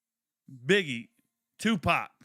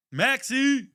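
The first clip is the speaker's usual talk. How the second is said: higher, louder excited call; 10 semitones higher, 5 dB louder than usual. Real, not acted. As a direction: cheer his name. Calling out to draft pick.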